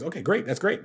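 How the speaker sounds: excited. Retold or imitated. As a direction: retell an excited, quick yes. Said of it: "I remember he was excited".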